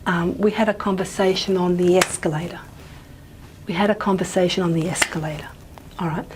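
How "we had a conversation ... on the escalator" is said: neutral reading, main stress on the final word escalator; neutral declarative reading. Shown as a demonstration. Lecturer demonstrates a sentence without context, neutral declarative reading. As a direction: read it neutrally, accent landing on escalator. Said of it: "neutral declarative reading, no context".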